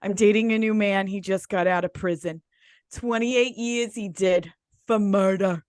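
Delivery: put-on accent of a reality-show mob wife; Big Ange impression. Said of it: "Big Ange says".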